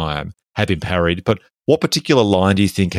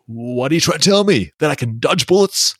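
put-on a light Californian American accent, pitched up; quoting Neo in a mild Californian American accent; 7 semitones higher than usual. A light Californian American accent for his co-host quoting Neo. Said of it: "that's my Californian American accent".

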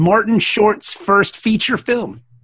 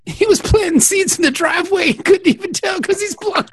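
high-pitched tearful lament; mock crying; 6 semitones higher than usual. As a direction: blubber it like a hammy crier. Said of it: "He's a crying ass dude".

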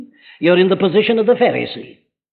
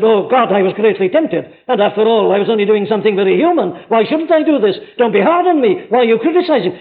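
self-justifying plea; 4 semitones higher, faster than usual. Retold or imitated. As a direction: plead lightly like a man making excuses. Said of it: "David doesn't get up and said".

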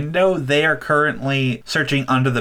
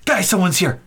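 put-on higher, urgent kid shout; alarmed; 6 semitones higher than usual. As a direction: warn the others in a panic.

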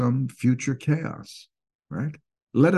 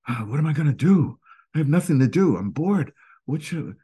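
higher, fast mock-bored whine; bored whining; 6 semitones higher, faster than usual. Restless bored person whining to himself, higher and fast. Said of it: "you're sitting around and you're saying".

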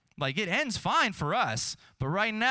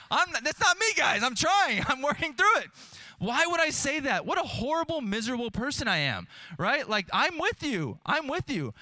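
laughing protest; 9 semitones higher than usual. Real, not acted. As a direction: laugh it off, pleading innocence. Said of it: "laughing defends himself to room".

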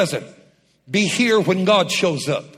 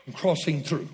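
quiet echo; 5 semitones lower, 7 dB quieter than usual. Real, not acted. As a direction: lower and much softer, almost to himself. Quiet echo after shout.

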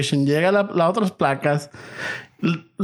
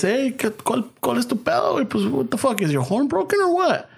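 higher, confrontational cop voice, mock-aggressive; angry cop; 6 semitones higher than usual. Cop challenging the driver who honked, mock-angry and higher. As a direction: play the irritated cop picking a fight.

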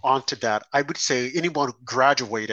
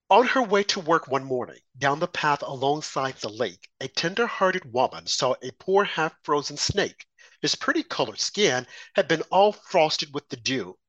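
measured, storytelling read of a poem. Acted. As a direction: recite it like a cautionary tale. Reads the poem The Snake.

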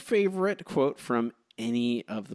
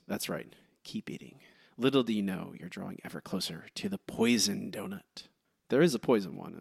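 Mister Burns voice; 3 semitones lower than usual. Acted. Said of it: "I'm gonna go with today is, um, Mister Burns".

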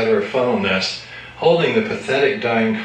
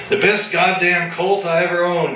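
bellowing; 7 semitones higher than usual. A narrator's reading. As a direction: bellow it in outrage. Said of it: "he bellowed".

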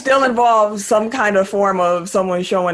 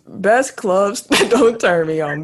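slow, drawn out through a laugh; correcting a co-host's slip while cracking up; laughing, slow correction; much slower than usual. Real, not acted.

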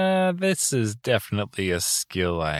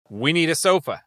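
command phrase; 6 semitones higher than usual. Acted.

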